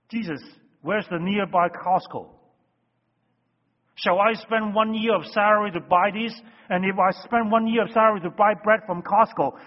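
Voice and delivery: preacher voices the doubting disciples, sarcastic; semi-sarcastic disciples. Retold or imitated. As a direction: play the disciples scoffing at the idea. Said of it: "this response is semi-sarcastic".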